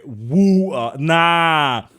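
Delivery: loud exaggerated British water; mock posh British. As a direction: overdo the British vowel in water. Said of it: "he exaggerated that shit".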